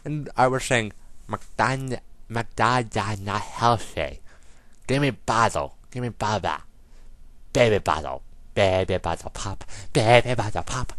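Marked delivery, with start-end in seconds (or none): 1.3-10.9 lightly voiced baby talk, slow at first; a hint of baby talk. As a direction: babble like a toddler asking for his bottle. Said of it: "I was a little baby".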